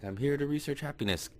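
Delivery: high-pitched mock panic; retold frightened answer. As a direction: plead it out high, as a scared captive. Captive answers at gunpoint.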